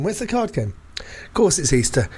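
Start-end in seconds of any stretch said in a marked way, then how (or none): 0.0-0.7 squeaky falsetto. Pretend. Comic high voice again.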